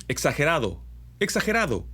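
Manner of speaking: exagerado with a strong throaty j, pitch jumping up the second time; exaggerated articulation. Shown as a demonstration. Teacher exaggerating the j in exagerado. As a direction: overarticulate exagerado. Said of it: "dientes, exagerado".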